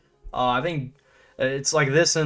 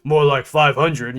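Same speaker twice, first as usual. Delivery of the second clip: slow, offhand mocking voice; a lightly voiced scoffing king; quoting Menelaus; 4 dB louder than usual. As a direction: shrug it off dismissively, drawn out. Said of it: "he's like".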